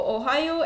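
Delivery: "Ohayo" said as a learner in Japanese; Japanese greeting. Shown as a demonstration. New learner greeting viewers in Japanese. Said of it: "say this one Japanese word".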